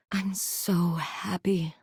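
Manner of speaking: slow whispered joy; tender whisper. Acted. Toy thanking the player for acceptance, slow tender whisper. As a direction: whisper it slowly, moved.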